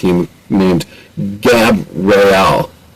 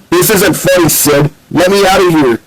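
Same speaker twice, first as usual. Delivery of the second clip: indignant; 9 semitones higher than usual. Acted. Ratchet trapped, Sydney laughing.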